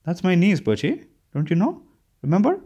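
gentle reminder. A narrator's reading. Narrator reminding confused Birchie who her niece is, gently. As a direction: remind her gently, lifting into each question. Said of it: "I said gently".

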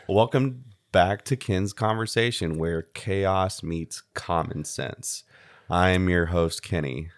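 announcer-style show opener; podcast intro. Acted. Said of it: "fade into me saying this".

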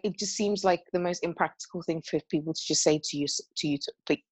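stumbling over the words, restarting; tongue-tied. Real, not acted. Co-host recalling friend's advice after wine, tongue-tied. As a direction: trip over the phrase mid-thought. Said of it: "I'm getting tongue-tied".

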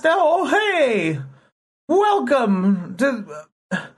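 high mock Irish leprechaun voice, slow on welcome; bad Irish brogue, hammed up; attempted Irish accent. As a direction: leprechaun host greeting in a shaky Irish accent. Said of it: "I don't know how to do an Irish accent".

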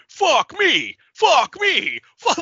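high, loud mock yell; imitating movie robber. Robber shooting at RoboCop, imitated in a high mock yell. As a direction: yell it repeatedly as an impression of the bad guy. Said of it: "starts shooting at RoboCop going".

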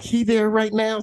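high, incredulous "He there right now?"; disbelieving question. Retold or imitated. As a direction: ask it as if you can't believe it. Son in disbelief on phone.

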